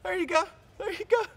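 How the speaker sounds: high, sing-song vet lady; cheery vet lady. Retold or imitated. The vet lady unclipping the collar, a high breezy sing-song. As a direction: lightly mimic the vet lady's breezy reassurance. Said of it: "She just goes".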